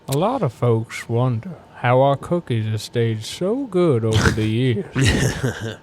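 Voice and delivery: slow, folksy cookie commercial voice, drawn out; mock cookie ad voice. Podcast host jokes a cookie commercial for his co-hosts, slow mock ad read. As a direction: sell the cookies like an old-timey ad announcer. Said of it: "do that voice".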